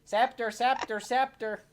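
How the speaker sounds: high, loud repeated calling; acted shouting, insistent and high; yelling out. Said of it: "Jacques starts yelling out".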